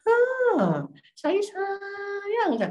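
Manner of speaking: high-pitched, stretched-out endearment; playful affection. Real, not acted. Teacher reassuring students of love, playfully cooing. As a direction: coo it long and high.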